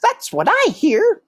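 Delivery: high, cheeky brother mouse; matter-of-fact big brother; Toulouse. A narrator's reading. Toulouse continues.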